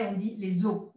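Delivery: les os with the S silent, lez o. Shown as a demonstration. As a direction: say les os, linking z, no final S. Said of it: "On ne prononce pas le S".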